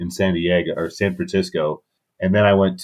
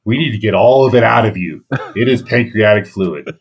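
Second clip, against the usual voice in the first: louder doctor voice, urgent; a hint of an alarmed doctor, pushed louder; imitating the doctor; 3 semitones higher, 5 dB louder than usual. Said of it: "you're like".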